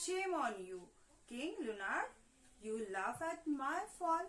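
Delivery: loud, slow furious shout at the king; a witch shouting in fury; angry shouting. Acted. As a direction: scold him like a wronged witch. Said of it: "angrily shouting".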